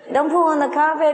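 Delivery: high, loud parrot copying a scolding owner; a parrot parroting its owner's house rule; parrot mimicking owner. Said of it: "it sounds exactly like the owner's voice".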